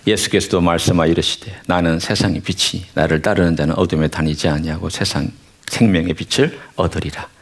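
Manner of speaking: measured, solemn Bible reading; scripture reading. Acted. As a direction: read the verses steadily to the congregation. Reads scripture aloud.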